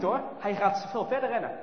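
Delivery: ordinary delivery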